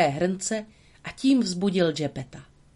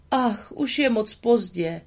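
Geppetto exclaiming; 4 semitones higher than usual. Acted. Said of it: "zvolal Geppetto".

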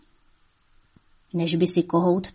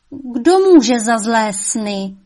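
soothing mother; 3 semitones higher, 7 dB louder, much slower than usual. A narrator's reading. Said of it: "ona ho chlácholila".

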